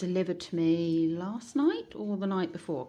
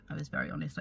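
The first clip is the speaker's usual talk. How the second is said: quiet repeat; 2 semitones lower, 6 dB quieter, faster than usual. Real, not acted. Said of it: "I was very honest with them".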